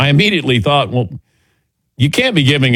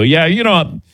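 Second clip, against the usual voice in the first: lightly puffed-up, higher-pitched name-dropping; fake know-it-all; 4 semitones higher than usual. Talking to racing people as if he knew, mock know-it-all. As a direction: imitate yourself posing as an insider. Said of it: "I was trying to sound like I knew".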